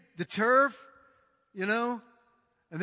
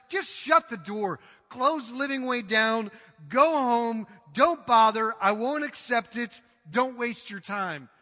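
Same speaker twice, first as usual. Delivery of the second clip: forceful rebuke; 5 dB louder than usual. Acted. Preacher voicing God's rejection.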